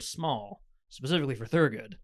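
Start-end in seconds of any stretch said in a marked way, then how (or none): 0.0-0.6 "small" set apart and emphasized; stress on small. Real, not acted. Game master warning the spaceship is tight, stressing "small". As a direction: lean on the word "small". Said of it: "I stress the word".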